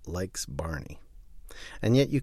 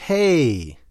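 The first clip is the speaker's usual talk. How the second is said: big word; 7 semitones higher, 9 dB louder than usual. Shown as a demonstration. Reading the huge printed word.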